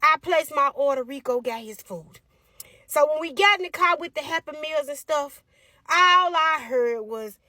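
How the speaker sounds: normal talking voice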